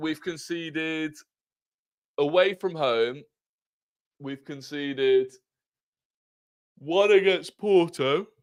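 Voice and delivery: yawning while talking. Checking a team's away goals conceded, speaking through a yawn. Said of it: "apologies for yawning".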